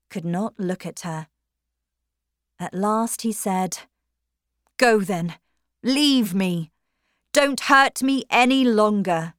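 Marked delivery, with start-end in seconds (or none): 4.8-9.3 wounded lover. A narrator's reading. Stephen gives up bitterly.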